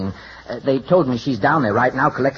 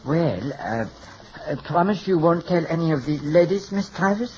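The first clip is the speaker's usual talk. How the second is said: put-on French hairdresser accent; hesitant, in a fake French accent; phony French accent. Hairdresser asking his client for secrecy, phony French accent. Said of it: "without the phony French accent".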